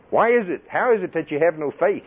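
high, emphatic upbraiding; rebuking Jesus. Acted. Jesus upbraiding disciples for unbelief, sternly rebuking. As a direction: scold as a strong voice of authority. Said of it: "he'd rebuke the disciples for their unbelief".

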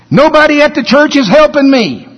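high mocking whiny complainer; mock whine. Preacher mocking a complaining church member, high whine. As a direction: whine it like a self-pitying churchgoer.

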